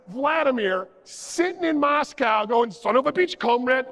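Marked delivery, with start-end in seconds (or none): 2.7-3.9 lightly hammed Russian accent; terrible Russian accent. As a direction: put on a bad Russian accent. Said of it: "That's my terrible Russian accent".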